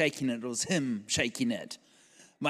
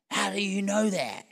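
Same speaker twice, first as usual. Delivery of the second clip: high-pitched, pleading disbelief; imitated incredulous question; 5 semitones higher than usual. Waiter questioning the pastor, high and incredulous. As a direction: ask it high, as the upset waiter.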